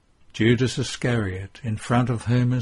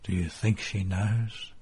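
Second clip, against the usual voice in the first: softer, hushed question; very low voice; 5 dB quieter than usual. A narrator's reading. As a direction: ask it quietly, as if beside a corpse. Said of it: "Peter asks in a very low voice".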